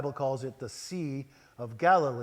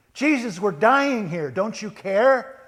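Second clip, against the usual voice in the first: high, very loud cry of acted panic; hysterical plea; 8 semitones higher, 11 dB louder than usual. Disciples crying out to Jesus in the storm, hysterical. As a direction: shout for help in theatrical desperation. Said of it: "A little hysterical, don't you think?".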